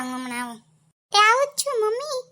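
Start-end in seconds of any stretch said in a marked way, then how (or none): 1.1-2.2 high, loud sing-song call. Acted. Daughter-in-law answering her mother-in-law, high loud call. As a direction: call back sweetly from another room.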